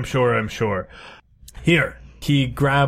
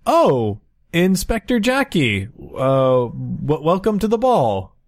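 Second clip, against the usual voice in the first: lightly voiced polite officer, raised pitch; a hint of an eager doorman, higher; lieutenant voice; 5 semitones higher than usual.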